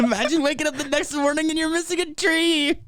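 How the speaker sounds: high squeal through laughter; laughing. Real, not acted. Friend cracking up over the stolen tree, laughing high.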